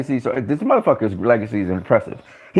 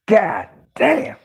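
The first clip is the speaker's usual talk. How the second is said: high, strained god damn; overwhelmed outburst; stunned exclamation; 7 semitones higher than usual. Real, not acted. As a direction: gasp it out in disbelief. Stunned by Pacquiao's bold move.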